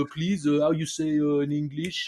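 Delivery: groping for words in a put-on French accent; helpless French tourist hunting for English words. Shown as a demonstration. Fare dodger pleading no ticket, hesitant French accent. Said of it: "the French accent in English".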